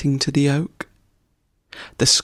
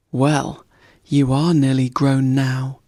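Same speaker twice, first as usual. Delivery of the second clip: cheerful. Acted. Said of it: "said a cheerful voice".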